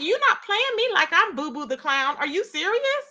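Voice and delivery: retold affronted challenge, climbing high at the end; incredulous, rising into a high question; indignant comeback. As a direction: refuse to be made a fool. Retelling her indignant comeback to him.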